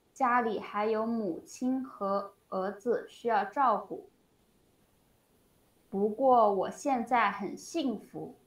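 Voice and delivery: slow, deliberate teacher's read-aloud; measured model reading for a language learner. Shown as a demonstration. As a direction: read the example out slowly, phrase by phrase. Reads out example sentence.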